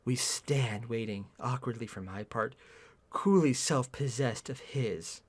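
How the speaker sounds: slow, low, soft reading; subdued first-person narration; story narration. A narrator's reading. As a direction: narrate it quietly and deliberately. Reads the story aloud.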